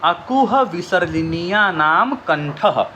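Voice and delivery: slow, measured chanting of the formula; slow sutra recitation. Shown as a demonstration. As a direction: recite it like a rule to memorise. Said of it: "पहला formula". (धीमे से सूत्र का पाठ)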